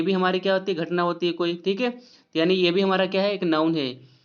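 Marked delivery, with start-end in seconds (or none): none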